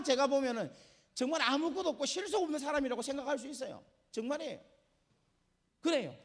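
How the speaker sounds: loud, high, full-force sermon delivery; fiery preaching. Real, not acted. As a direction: preach it out with fire and conviction.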